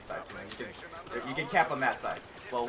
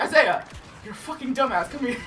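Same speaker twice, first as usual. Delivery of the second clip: imitated scolding shout; 8 semitones higher, 6 dB louder than usual. Acts friend scolding him from afar.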